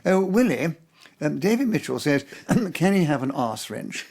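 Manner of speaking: put-on innocent, polite English accent. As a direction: play the naive English newcomer. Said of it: "with my English accent saying".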